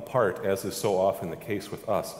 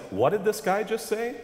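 high, startled amazement; amazed crowd; 11 semitones higher than usual. Retold or imitated. Synagogue crowd reacts to Jesus, high startled amazement. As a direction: gasp it out in disbelief. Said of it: "crowd's amazed reaction".

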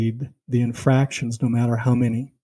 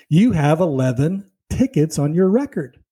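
mock loud salesman; 4 semitones higher than usual. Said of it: "very loudly".

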